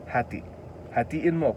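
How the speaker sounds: ordinary talk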